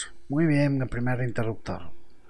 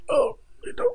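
dismayed cry; 4 dB louder than usual. Real, not acted. Failing again.

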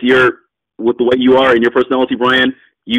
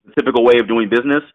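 nonchalant. Shown as a demonstration. Investor explaining his usual terms to a seller, nonchalant. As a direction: say it casually, like routine business. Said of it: "I say it very nonchalantly".

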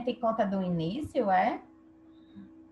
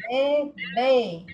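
"bebê" said slowly by syllable, final "bê" held; stress on last syllable; 4 dB louder than usual. Shown as a demonstration. Teacher showing pupils the second B is stronger, stressed "bebê". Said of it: "é o segundo B".

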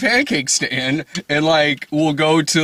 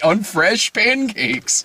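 drawn-out pitch; 8 semitones higher, much slower than usual. Pretend. Pitching pancakes.

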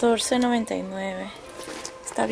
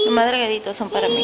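high, fast, half-joking whimper; hammed-up teary wail, not real; mock crying; 12 semitones higher, 4 dB louder, faster than usual. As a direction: fake a sob over the thin chokers. Mock lament about thin necks.

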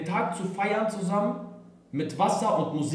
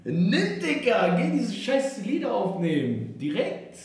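generous big brother; 6 semitones higher, much slower than usual. Retold or imitated. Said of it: "Ich meinte so".

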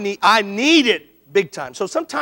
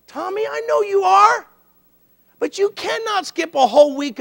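a hint of a firm coach, pitched up; coach's reply, lightly acted and higher; lightly voiced coach; 5 semitones higher than usual. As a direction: imitate a coach laying down the rule. Voices coach's imagined answer to him.

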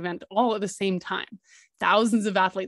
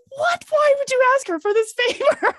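much higher, louder disbelieving squeal; stunned squeak at coach's news; shocked squeal; 5 dB louder than usual. Retold or imitated. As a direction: squeal it like you can't believe it. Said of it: "I'm like".

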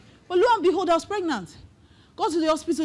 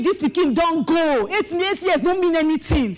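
a light taunting voice of doubt, a touch higher and slower; 3 semitones higher than usual. Acted. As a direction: let doubt nag her, mildly voiced. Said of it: "Doubt will be saying".

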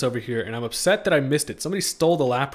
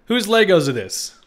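loud, high and slow, stretching "Legos"; astonished question; 7 semitones higher, 9 dB louder, slower than usual. Real, not acted. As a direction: disbelief at what he sees. First take, shocked at Legos.

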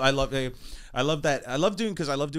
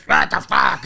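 deep voice quote; 5 semitones lower, 5 dB louder, slower than usual. Retold or imitated. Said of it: "he got a real deep voice".

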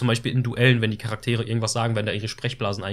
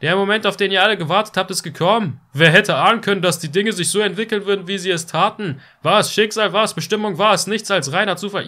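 dramatic announcer; 7 semitones higher, 3 dB louder than usual. Acted. Reading dramatic intro narration.

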